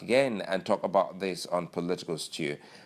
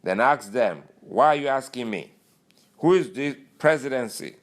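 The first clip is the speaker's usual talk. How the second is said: indignant Lawal; 5 semitones higher, 5 dB louder than usual. Retold or imitated. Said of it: "He goes".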